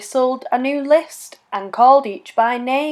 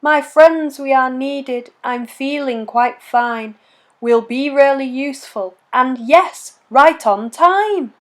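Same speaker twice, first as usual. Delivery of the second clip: mild loud cry. Acted. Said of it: "Sir Hat gave a loud cry".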